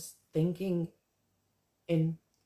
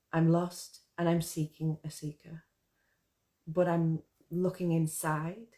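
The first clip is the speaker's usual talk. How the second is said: measured spoken-word reading with pauses between phrases; poetry recital. Acted. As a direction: recite your own poem, line by line, leaving space. Recites own poem.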